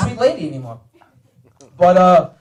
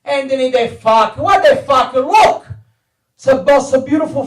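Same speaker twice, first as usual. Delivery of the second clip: put-on raised, insistent Italian-accented voice; Italian father's accent; 5 semitones higher, 4 dB louder than usual. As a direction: urge him to look, in an Italian accent. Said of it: "most fucked up Italian accent".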